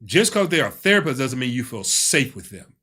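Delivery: loud, punched stress on "therapist" and "safe"; firm emphasis, hitting "safe" hard; emphatic. Real, not acted. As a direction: drive home "safe" with extra force. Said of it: "Let me emphasize that".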